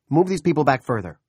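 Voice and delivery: loud snarled command; snarling order. A narrator's reading. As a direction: bark it back at the officer. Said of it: "Randolph snarled".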